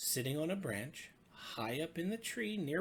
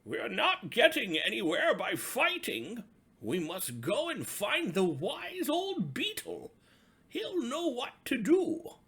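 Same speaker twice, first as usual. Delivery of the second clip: loud, high commanding shout; chief frog shouting; 9 semitones higher, 12 dB louder than usual. A narrator's reading. Chief frog stopping the fighting animals with a loud shout. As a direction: halt the quarrel with a loud shout. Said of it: "the chief frog shouted out".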